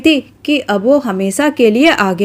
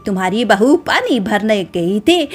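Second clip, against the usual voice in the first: loud angry scolding; 2 semitones higher than usual. Acted. Shashirekha storming in to accuse Kalavati's bride, angry raised scold. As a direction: storm in and shame your sister-in-law loudly. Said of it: "बहुत ही जोर से बोलने लगी".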